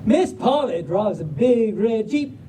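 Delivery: folksy Southern storybook reading; Southern drawl. Acted. Reader opening the puppy book for the crowd, Southern drawl. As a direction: launch the title in a Southern drawl. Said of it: "but in a Southern drawl".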